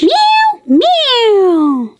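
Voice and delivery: very high little meows; kitten meowing. Acted. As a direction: squeak it like a tiny kitten. Cat answers the girl.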